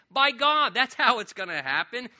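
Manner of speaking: emphatic proclamation. Real, not acted. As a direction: declare it boldly to the congregation. Repeats answer at full force.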